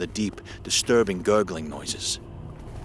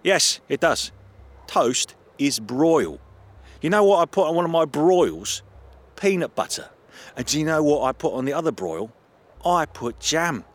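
higher, playful teasing voice; 6 semitones higher, 4 dB louder than usual. Acted. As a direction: drag it out to tease. Alex teases John about broil.

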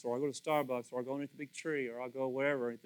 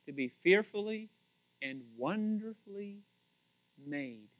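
quiet, musing, fading to a hush on made; soft reflection; 6 dB quieter than usual. Shown as a demonstration. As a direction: let "wonderfully" sink softly, then trail "made" almost silent. Repeating the verse, reflecting.

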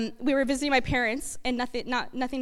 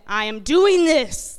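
determined vow; 7 dB louder, slower than usual. Retold or imitated. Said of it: "and I went".

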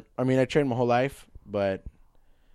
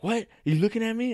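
cholo challenge; 13 semitones higher, faster than usual. Retold or imitated. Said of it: "He's like".

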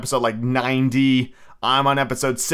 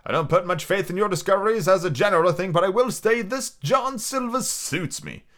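higher-pitched character voice, slowing at the end; measured doctor; 5 semitones higher than usual. Acted. Doctor telling the squire he approves, in a considered voice. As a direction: give a considered verdict as the doctor.

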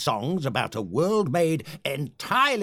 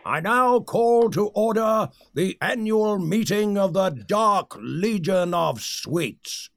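rallying call to order; 3 semitones higher than usual. Acted. Leader opens secret society meeting.

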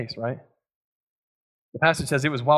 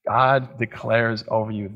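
ordinary delivery

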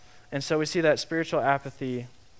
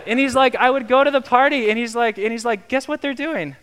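excited retelling; 9 semitones higher, 7 dB louder than usual. Retold or imitated. Excited retelling of a friend's words.

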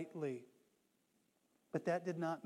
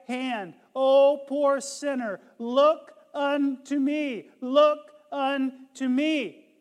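building fervent preaching; 3 semitones higher, 8 dB louder than usual. Retold or imitated. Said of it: "He continued".

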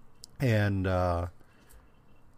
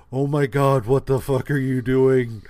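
mock alarmed outburst; 3 semitones higher, 7 dB louder than usual. Podcaster voicing Ross appalled at the smack talk, loud mock alarm. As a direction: exclaim it like an appalled onlooker. Ross's horrified reaction acted out.

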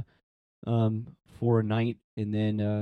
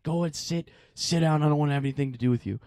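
mock snappy driver; 2 semitones higher, faster than usual. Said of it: "just snaps at me".

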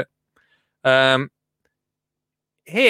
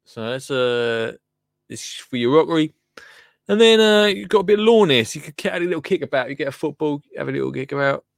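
mock TV reporter. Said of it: "reporting for B B C Three".

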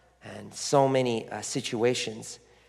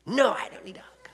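higher mock child's protest; imitated crying refusal; 10 semitones higher than usual. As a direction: lightly mimic an upset child, fading off. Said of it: "she's crying hysterically".

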